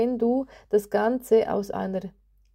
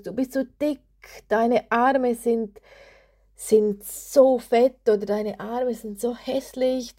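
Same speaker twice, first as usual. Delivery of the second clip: harsh inner critic. Retold or imitated. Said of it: "die sagt Dinge zu dir".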